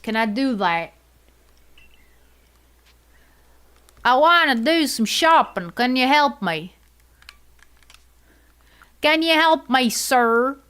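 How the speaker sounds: hammed-up Southern shopper voice, Southern US accent; a playful, amateur Southern US accent; put-on Southern accent. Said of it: "I have no idea what accent this is".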